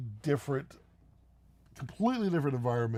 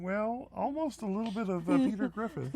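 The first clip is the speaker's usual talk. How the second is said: higher-pitched cartoon impression; Peter Griffin; 7 semitones higher than usual. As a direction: do a goofy cartoon character's voice, pitched up. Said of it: "Sounds just like it".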